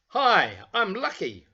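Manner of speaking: put-on storyteller voices Lucky for children, high and eager; eager little bear. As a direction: play the bouncy toy bear itching to go out. Lucky meets Ben.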